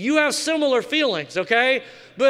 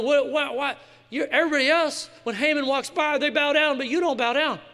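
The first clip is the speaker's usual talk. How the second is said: mock indignant officials; 4 semitones higher than usual. Mocking the officials' challenge.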